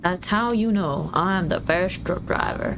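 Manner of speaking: drawling, badly faked southern trucker; hammed-up southern truck driver drawl; attempted southern accent. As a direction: put on a slow, unsure southern accent. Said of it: "how to do a southern accent".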